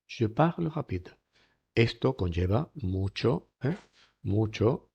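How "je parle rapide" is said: slow, higher "parle rapide" with aspirated R; gentle h-like R in "parle rapide"; R as soft J. Shown as a demonstration. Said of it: "R, una J, suave".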